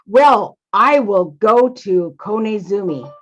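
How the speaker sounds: throat-clear, then a slow, deliberate concession; embarrassed, humbled. Acted. Father Mouse agrees to go to Konezumi, sheepish and humbled. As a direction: clear your throat and give in awkwardly. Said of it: "embarrassment, shall we say, he's a little shy, almost humbled".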